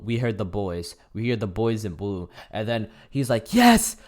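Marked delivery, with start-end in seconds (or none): 3.5-4.0 evil laugh. Retold or imitated. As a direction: shout it much higher and louder, then burst into a cackling villain laugh. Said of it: "he does an evil-ass laugh".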